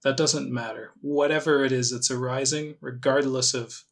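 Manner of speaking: calm meditation guide, long pauses between phrases; measured, gently leading meditation voice; guided meditation. Acted. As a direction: ease them into it with unhurried, spaced-out instructions.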